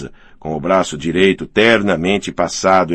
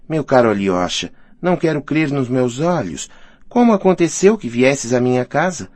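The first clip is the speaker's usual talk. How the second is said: higher-pitched, animated woman's character voice; lightly voiced delighted hostess; 6 semitones higher than usual. Hostess welcoming an unexpected guest, lightly voiced delight. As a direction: play her mildly flustered and pleased.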